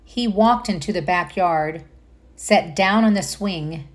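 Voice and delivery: gentle storybook narration; reading to children. Acted. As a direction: read it like bedtime to little ones. Reads picture book aloud.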